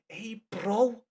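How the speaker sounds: mock the bro greeting; lightly hammed "Hey, bro". Shown as a demonstration. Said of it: "Stop saying bro".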